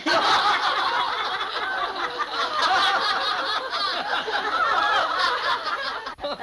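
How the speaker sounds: high embarrassed giggle; real laughter. Real, not acted. The speaker laughing after his recitation, giggling. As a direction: laugh it off sheepishly.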